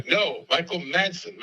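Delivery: slow, corrective stress on "Madsen"; retold correction. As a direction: spell out "Madsen" slowly for a listener who misheard. Caller correcting misheard name.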